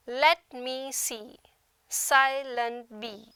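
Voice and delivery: "Let me see / silent bee" slowly, in three-syllable groups; slow, separated syllables in "Let me see, silent bee"; dactylic scansion. Shown as a demonstration. Teacher illustrating dactyl meter, slow scansion by syllables. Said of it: "with the first syllable stressed".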